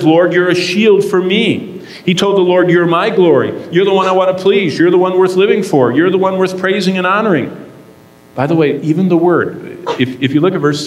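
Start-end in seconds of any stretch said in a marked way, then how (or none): 0.0-7.5 voicing a prayer. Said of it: "He said".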